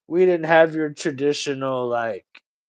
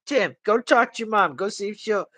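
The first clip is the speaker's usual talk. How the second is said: a hint of a scheming old grandma, a little higher; lightly voiced grandma; 5 semitones higher than usual. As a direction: coax the grandson like a sly grandma. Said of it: "And she'd be like".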